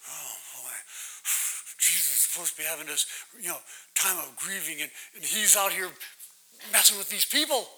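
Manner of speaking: a hint of disciple grumbling under the breath; lightly voiced grumble to yourself; grumbling aside. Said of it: "sitting in the background going".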